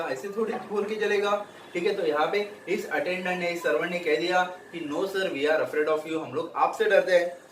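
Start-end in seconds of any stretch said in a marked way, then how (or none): 4.9-6.3 slow read-aloud. Shown as a demonstration. Teacher repeats servant's line.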